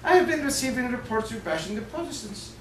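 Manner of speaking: Irish archbishop's soft-spoken rebuke; quiet Irish-accented scolding. Acted. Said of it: "with his Irish accent".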